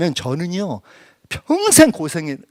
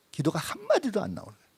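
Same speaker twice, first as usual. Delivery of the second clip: whisper; 7 semitones higher, 7 dB quieter, faster than usual. Real, not acted. Describing being speechless in prayer.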